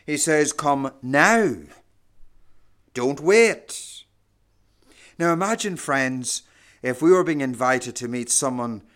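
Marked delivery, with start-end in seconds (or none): 0.5-4.0 louder, urgent command; firm command. Acted. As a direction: call them to come right now. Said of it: "God is commanding his people to come".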